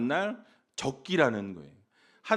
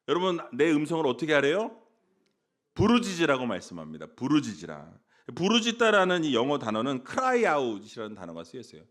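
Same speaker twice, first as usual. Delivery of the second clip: usual speaking voice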